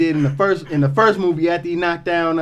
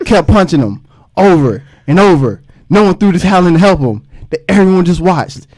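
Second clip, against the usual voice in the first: louder, mock sensational newscaster; hype news anchor; 5 dB louder than usual. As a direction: pump it up like a tabloid news read. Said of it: "that's when you wanna agitate him".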